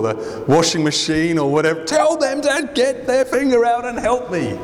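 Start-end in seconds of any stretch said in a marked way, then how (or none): 1.8-4.6 high, whiny sibling demand; lightly hammed-up complaint, pitched way up; a mock squabbling sibling, pitched high; mock exasperated sibling. Siblings squabbling over chores.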